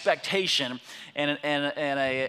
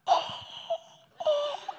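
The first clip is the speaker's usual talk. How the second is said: shocked yell. Retold or imitated. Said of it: "the most shocked, quiet yell".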